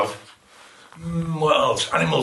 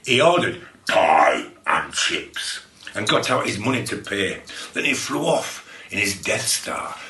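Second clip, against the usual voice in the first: story reading. Acted. A read-aloud silly poem.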